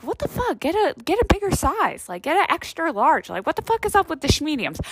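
disbelieving, half-laughing outrage; reacting to gym guys in tiny shirts; mock outrage. Her own retold outraged reaction.

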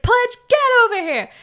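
loud, high holler at a pledge; imitated frat bro order. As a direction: bark it like an over-the-top frat boss.

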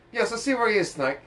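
high squeaky codec voice; a hint of Otacon; Otacon impression. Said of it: "doesn't sound like Otacon".

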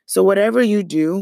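normal talking voice

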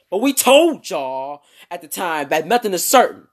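irritated, loud scolding with TOLD punched; angry voice. Acted. Annoyed reporters telling fans off, loud and angry. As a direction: scold them as if they ignored your warning. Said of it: "let me read that in their voice".

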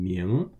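"ming" with a rising pitch; second tone. Shown as a demonstration. Teacher models the syllable for learners, second tone. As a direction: lift "ming" upward, Mandarin second tone. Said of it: "in the second tone".

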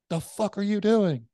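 high, loud, slow imitated outcry; alarmed demand. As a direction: act out an alarmed partner demanding answers. Partner alarmed by the pistol case.

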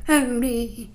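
lightly put-on goofy voice; playful nonsense character voice; random silly voice. Shown as a demonstration. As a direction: try out a silly made-up voice. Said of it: "I'm just gonna do a random voice".

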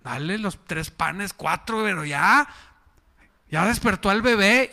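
nagging wife. Acted.

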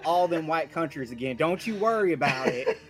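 folksy right-wing radio caller voice; hammed-up caller character. Caller thanking the Scottish host and promising him guns, hammed-up folksy earnestness. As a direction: play the patriotic caller signing off with mock sincerity. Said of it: "podcast in that voice".

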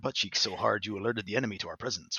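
lightly voiced stern commander Zavala; a hint of a solemn commander scolding; deadpan commander voice roasting a teammate. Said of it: "I started doing my Zavala voice".

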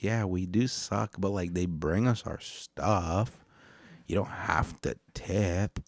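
mock shopper. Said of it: "they probably just be like".

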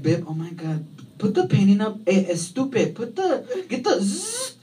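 put-on mildly exasperated Mexican-accented wife; angry Mexican wife. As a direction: imitate a wife fumbling for words in a Mexican accent. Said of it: "when she's angry".

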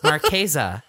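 high snooty Marquesa; catty. Retold or imitated. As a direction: say it like a rude sales voice. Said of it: "a bitchy voice for this".

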